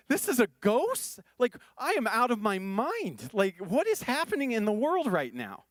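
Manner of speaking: mock-panicked rant, pitch climbing; panicked disciple. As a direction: play a terrified disciple losing it in the storm. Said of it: "I'm freaking out, screaming, going".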